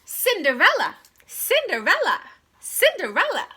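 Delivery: loud, high repeated calls; calling out. Acted. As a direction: demand her from upstairs again and again. Stepsisters calling her repeatedly.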